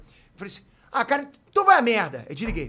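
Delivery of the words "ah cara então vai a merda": calm brush-off. Shown as a demonstration. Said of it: "Nesse tom, foi nesse tom".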